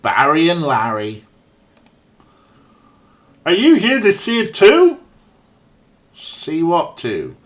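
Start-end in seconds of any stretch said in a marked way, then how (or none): 3.4-5.0 put-on high, loud Midwest accent; hammed-up Minnesota Midwest accent. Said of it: "my best approximation of some sort of Midwest accent".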